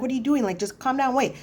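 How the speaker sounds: high-pitched retold protest; alarmed objection. Relatives telling auntie to calm down, alarmed objection.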